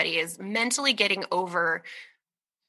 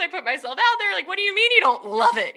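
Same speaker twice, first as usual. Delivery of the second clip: mock wounded; 10 semitones higher, faster than usual. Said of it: "and it's crushing me".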